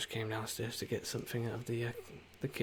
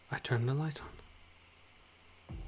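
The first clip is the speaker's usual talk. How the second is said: very slow, stretched words; drawn-out line; 5 semitones higher, much slower than usual. Acted. Announcing the light to the group, very slowly. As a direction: drag each word out slowly.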